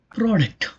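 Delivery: PRODUCT with the first syllable stressed. Shown as a demonstration. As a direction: say "product" leaning on "pro". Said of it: "the stress falls on the first syllable".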